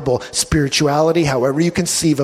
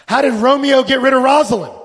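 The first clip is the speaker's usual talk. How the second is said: asked again, higher and louder, pressing for an answer; loud, higher insistent repeat; 9 semitones higher, 4 dB louder than usual. Shown as a demonstration. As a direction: push the question out so the room wakes up.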